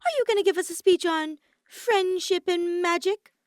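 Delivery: taunting disbelief; scoffing. A narrator's reading. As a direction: sneer at the threat. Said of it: "Kokichi scoffed".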